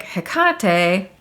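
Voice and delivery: "Hecate" as heh-KAH-tay, middle syllable stressed; heh-KAH-tay pronunciation. Retold or imitated. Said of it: "some of you guys are like".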